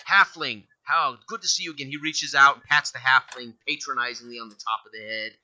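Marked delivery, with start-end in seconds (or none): 0.1-1.9 yell. Acted. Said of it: "and he yells back".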